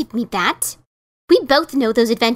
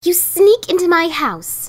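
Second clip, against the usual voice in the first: accusing; 3 semitones higher than usual. Acted. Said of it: "she accused".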